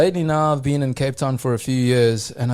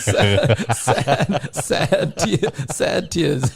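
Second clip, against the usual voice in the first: laughing; much slower than usual. Retold or imitated. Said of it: "He's like".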